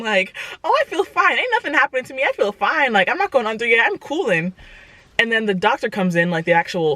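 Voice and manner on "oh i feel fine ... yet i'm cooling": mock bravado. Mock-calm pre-op bravado.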